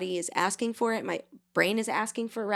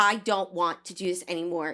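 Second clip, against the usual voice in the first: imitated irritated, aggressive tone; 2 semitones lower than usual. Retelling how partners talk without yelling: imitating an aggressive tone. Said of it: "it can be aggressive tone".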